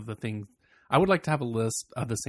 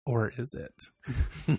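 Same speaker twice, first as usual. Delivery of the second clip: coy teasing voice; 3 dB quieter, much slower than usual. Retold or imitated. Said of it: "And he's like".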